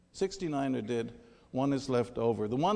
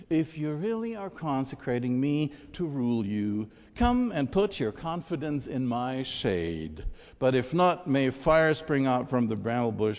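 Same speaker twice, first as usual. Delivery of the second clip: emphatic fable storytelling with raised calls; dramatic scripture reading. Acted. Preacher reads the trees seeking a king, dramatic storytelling. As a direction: declaim each tree's line with weight.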